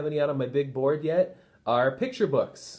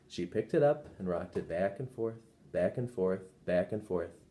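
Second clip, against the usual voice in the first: lower, softer soothing narration; a hint of a lullaby, lower and softer; rocking lull; 6 semitones lower, 6 dB quieter than usual. A narrator's reading. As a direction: rock the words like a cradle. Teacher rocks the baby.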